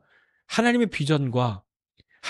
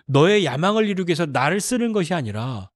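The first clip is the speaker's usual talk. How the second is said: ordinary talk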